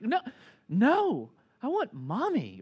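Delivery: high mock wail of a little kid; retold upset child. Hurt son rejecting dad for mommy, mock upset child.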